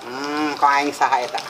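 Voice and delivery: mock tough guy. Mock tough Sundanese challenge.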